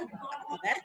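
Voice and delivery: "Apa kabar" mid-pitched, easing down on "kabar"; restrained falling tune on "Apa kabar"; varied intonation. Shown as a demonstration. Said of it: "mengatakan apa kabar dengan berbagai intonasi".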